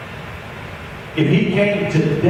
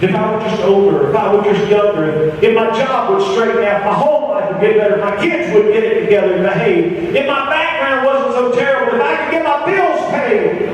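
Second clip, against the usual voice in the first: tag; 2 semitones higher than usual. Retold or imitated. Voicing excuses in a building list.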